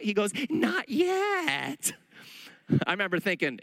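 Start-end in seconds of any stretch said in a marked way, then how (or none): 0.5-1.9 much higher, cheery reply; officer's cheery reply. Retold or imitated. The officer says he has not been busted, high and cheery. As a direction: toss it off brightly.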